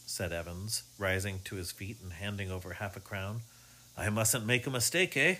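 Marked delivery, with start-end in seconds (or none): 3.9-5.4 lightly. Acted. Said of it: "He spoke lightly enough".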